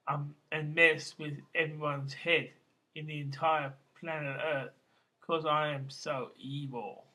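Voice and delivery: measured, declaimed amateur poetry reading; poem reading. Acted. Poet reads his Slobodan Milosevic poem to listeners, reciting evenly.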